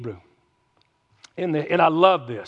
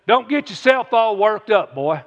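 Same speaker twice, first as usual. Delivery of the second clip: cowboy version. Pretend. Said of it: "a real cowboy version".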